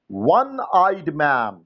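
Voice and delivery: very slow, word by word: "one eyed man"; teacher dictating an exercise slowly; slow dictation. Shown as a demonstration. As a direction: dictate each word for the class to write. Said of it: "खाली स्थान".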